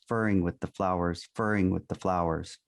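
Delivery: furring with the flowers, repeated like a stuck needle; "furring" clipped where the record skips, said twice the same; skipping record. Retold or imitated. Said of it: "Only when I placed a finger on the stylus".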